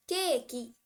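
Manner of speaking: केकी the Japanese way, ke-ki; Japanese pronunciation. Shown as a demonstration. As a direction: say केकी as ke-ki with a final i. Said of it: "ऐसा बोलते हैं वो लोग".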